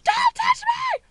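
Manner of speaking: slow, high-pitched furious scream; reenacted hysterical warning; freaking out. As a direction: shriek each word, stretched out. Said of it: "and I'm freaking".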